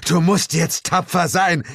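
high, hammed-up consoling voice; a falsely grieving friend; mock solemn comfort. Comrade consoles the narrator over a fallen friend, hammed-up.

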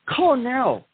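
pitchy late night TV ad voice; infomercial announcer. Acted. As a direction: sell it like a cheesy TV ad.

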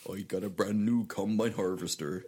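lightly voiced West Country squirrel accent; a hint of a Dorset farmer accent. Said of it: "kind of wurzily".

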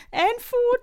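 high-pitched mock yelp of correction; retold exasperated cry. Driving instructor corrects two-footed learner, exasperated cry. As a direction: squeal it in comic exasperation.

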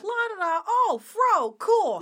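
high-pitched mock carefree babble; mock someone thoughtlessly admiring hair; clueless hair toucher.

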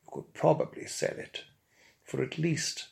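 a pompous, over-pronounced antiques expert; lightly posh, savouring every word like a connoisseur; a mock-grand storyteller relishing his own tale; his honeyed tones. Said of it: "my honeyed, liquid, and highly well-pronounced tones".

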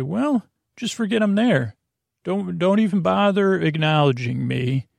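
mock passive-aggressive brush-off, lifted at the start. Telling the listener to forget he is there, mildly passive-aggressive. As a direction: act out a mild self-effacing guilt trip. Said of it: "That would be a passive aggressive way".

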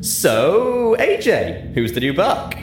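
high, loud, nosy teasing. A narrator's reading. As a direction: needle a friend about her date. Rainbow teases AJ.

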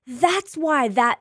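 mock realization. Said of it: "you look back and you go".

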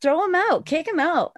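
high-pitched indignant demand, retold; mildly heated mock demand; mad. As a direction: act out insisting he be removed, without shouting. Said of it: "I was mad. I was like".

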